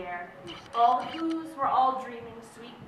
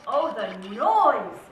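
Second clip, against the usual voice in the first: building from slow and loud to a much higher, louder shout; rising cry of noise; 8 semitones higher, 8 dB louder, much slower than usual. A narrator's reading. Narrator voicing the Grinch's hated Christmas noise, building to a shout. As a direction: crank it up each time he says noise.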